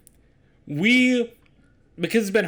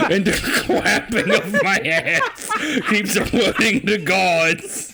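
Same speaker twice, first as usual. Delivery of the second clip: Solid Snake uwu voice; 4 semitones higher than usual. Pretend. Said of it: "do the solid Snake voice, but replace the R's and L's with W's".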